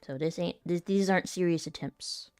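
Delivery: ordinary talk, nothing marked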